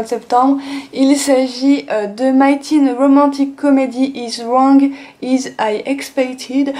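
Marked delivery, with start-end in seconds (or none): 2.3-6.7 English title read slowly with a heavy French accent; clumsy French-accented English. Real, not acted. Vlogger reading an English manga title, heavy French accent. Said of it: "bravo pour l'an-, l'accent anglais, je ne suis pas douée".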